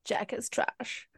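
soft, slow whisper. Real, not acted. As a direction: whisper it like a secret. Echoing the closing line.

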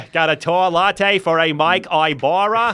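slow, put-on counter callout; barista calling orders. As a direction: announce the order name carefully. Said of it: "this is a Starbucks in Massachusetts".

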